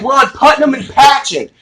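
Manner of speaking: high-pitched imitated yell; hammed-up emergency yell; retold urgent shout. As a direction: call out the location over the panic. Retold shouting to panicked caller.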